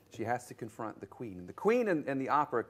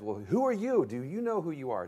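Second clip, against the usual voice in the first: mock girlish Alice; 5 semitones higher, 4 dB louder than usual. Alice questioning the Cheshire cat.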